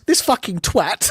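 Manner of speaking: slow, imitated English pub voice; mock English bloke grumbling about a striker; English pub accent. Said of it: "He goes".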